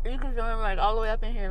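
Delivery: talking with sour candy in mouth; eating sour candy. Real, not acted. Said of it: "so sour".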